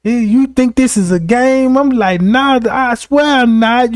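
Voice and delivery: acted earnest protest; protesting innocence. Pleading with judge, acted.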